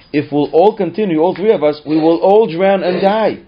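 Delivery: father desperately pleading, no real sobs; retold crying plea. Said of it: "he was crying when he said that".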